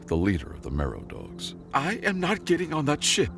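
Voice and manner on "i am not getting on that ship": put-on high, loud, indignant girl; defiant young woman. A narrator's reading. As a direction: refuse like a spoiled princess. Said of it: "she declared".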